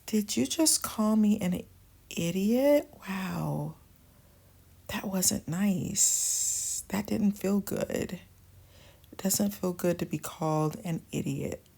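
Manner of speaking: soft, hurt but calm; quietly name how it felt; gently calling out. Shown as a demonstration. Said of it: "gently call them on it".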